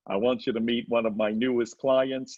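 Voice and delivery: lightly voiced manager impression; a hint of a manager character; Barry Katz. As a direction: put on the manager's voice a little, pitch near your own. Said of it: "he talks like this, my manager, Barry".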